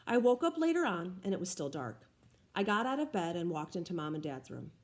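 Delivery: reading a novel aloud to the class; read-aloud narration voice; story narration. A narrator's reading. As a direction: tell the story gently, like a teacher reading.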